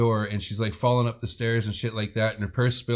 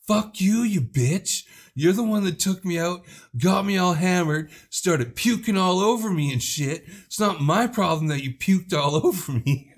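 mock drunk yell; 7 semitones higher than usual. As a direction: hurl it back like a wasted girl picking a fight. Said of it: "Handy's like".

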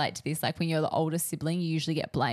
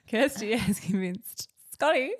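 third-person announcement; 3 semitones higher than usual. Acted. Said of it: "I have to speak in third person".

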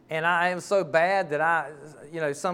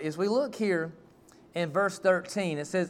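ordinary talk

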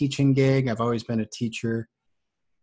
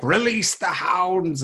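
higher, very slow, theatrical villain order; mock villain command; 8 semitones higher, 4 dB louder, much slower than usual. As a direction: ham it up like an evil lord unleashing dogs. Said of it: "they were like".

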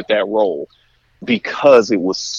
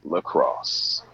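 announcer voice; 7 semitones higher than usual. Shown as a demonstration. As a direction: hype the crowd like a goal call. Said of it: "I just got chills listening to that".

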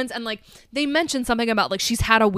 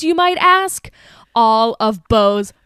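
louder, slower, building to a yell; excited shout; 7 dB louder, slower than usual. Real, not acted. Shouting the punchline to her podcast co-host. Punchline about water glasses.

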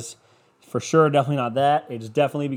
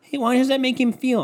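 shocked onlooker; 9 semitones higher than usual. Retold or imitated. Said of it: "they would be like".

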